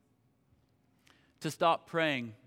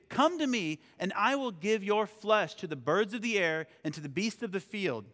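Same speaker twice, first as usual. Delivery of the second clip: emphatic, raised reading of a challenge; scripture reading, Goliath's threat; 3 semitones higher than usual. Acted.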